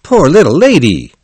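kind-hearted driver's sympathy; kindly. A narrator's reading. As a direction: pity a poor stranger. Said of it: "said the man kindly".

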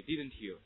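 "Didn't you" with a separate t and y; learner-style word-by-word "Didn't you"; wrong unlinked reading. Shown as a demonstration. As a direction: keep "Didn't you" unblended, no ch sound. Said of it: "这种错误的读法".

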